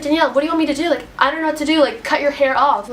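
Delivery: mildly annoyed retold scolding; mad mom. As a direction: scold lightly, like a fed-up mom. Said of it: "my mom got mad at me".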